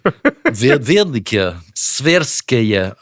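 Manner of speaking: "Tverskaya" pronounced as a Russian would; Russian pronunciation. Shown as a demonstration. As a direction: say "Verdike, Tverskaya" with Russian sounds. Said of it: "all the Russian pronunciations".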